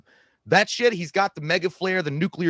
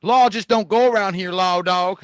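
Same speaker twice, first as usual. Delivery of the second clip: Tombstone quote; 4 semitones higher, 5 dB louder than usual. Acted. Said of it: "quote some Tombstone now".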